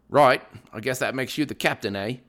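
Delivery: a bad, hammed-up British accent; horrible British accent. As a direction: put on a clumsy British accent as a joke. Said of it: "That was a horrible British accent".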